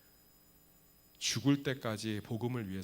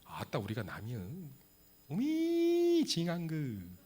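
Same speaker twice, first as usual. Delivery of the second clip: Jeolla dialect impression; slower than usual. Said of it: "전라도는 정말 기독교에 대해 우호적이에요".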